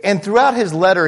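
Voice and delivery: normal talking voice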